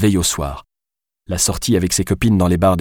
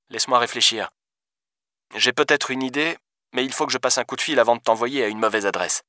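softer, higher phone voice; thoughtful police deputy; 4 semitones higher, 5 dB quieter than usual. Acted. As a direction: think aloud quietly down the line.

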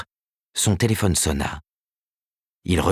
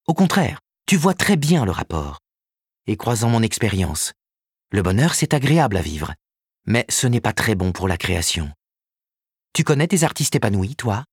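higher, businesslike woman's voice; lightly voiced Karen, brisk agent; 3 semitones higher than usual. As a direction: report the news briskly. Karen argues.

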